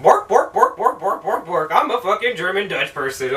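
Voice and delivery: stereotyped German-Dutch gibberish, each bork swooping up; cartoonish fake Dutch-German; mock German Dutch accent. Actress doing stereotypical German Dutch accent, mocking. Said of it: "most stereotypical fucking Dutch".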